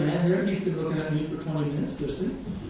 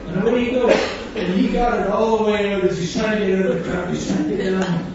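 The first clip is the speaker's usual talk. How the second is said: talking through laughter, louder; laughing; 6 dB louder than usual. Real, not acted. Preacher laughing as he tells the crowd about the man, louder. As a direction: chuckle your way through it.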